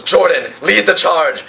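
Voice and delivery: mildly heroic acted call; battle command. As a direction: send your lieutenant into battle. Leader orders a charge.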